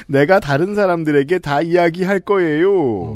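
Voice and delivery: 내가 다른 사람들에게 다 이야기할 거예요 slowly, threatening; slow, drawn-out threat; spoken-style mother. Shown as a demonstration. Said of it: "구어체를 썼을 것 같아요".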